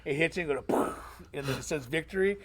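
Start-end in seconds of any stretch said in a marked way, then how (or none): 0.7-0.9 mouth-made shot impact noise; imitated poof effect. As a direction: puff out a game hit sound. Imitates the slow-motion shot effect.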